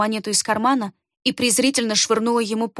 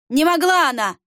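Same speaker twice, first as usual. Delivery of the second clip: higher, louder angry outcry; angry shout; 5 semitones higher, 3 dB louder than usual. A narrator's reading. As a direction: shout it in denial. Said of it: "зло выкрикнул Брух". (злой выкрик, выше и громче)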